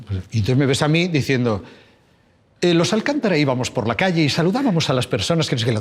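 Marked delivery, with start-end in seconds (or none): 2.6-5.8 quick, lightly put-on TV narrator voice; fast, playful hint of the series narrator; Cuéntame narrator voice. Shown as a demonstration. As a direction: rattle off a line in the narrator voice for a fan. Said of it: "dígame algo con la voz de Cuéntame".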